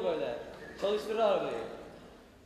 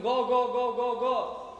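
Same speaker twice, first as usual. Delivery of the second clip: otobüsü sürer gibi; 5 dB louder, much slower than usual. Acted. Otobüs yolculuğunu canlandırıyor.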